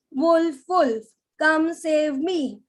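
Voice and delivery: slow, even, same-rhythm shout; slow flat shout. Shown as a demonstration. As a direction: drag it out in one rhythm. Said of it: "the boy shouted".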